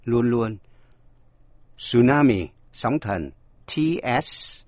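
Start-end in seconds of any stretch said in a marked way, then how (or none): 1.8-2.5 "Tsunami" said "soonami" with no t; silent t. Shown as a demonstration. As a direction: begin "Tsunami" on a plain s. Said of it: "không đọc".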